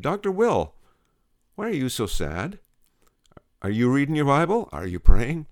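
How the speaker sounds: high, rising loud questions; concerned Edith. Acted. Edith pressing her sad doctor with rising questions. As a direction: press him with caring alarm.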